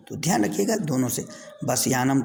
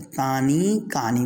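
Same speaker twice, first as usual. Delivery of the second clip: slow teaching drill; slower than usual. Shown as a demonstration. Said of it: "तत् ते तानी बहुवचन में".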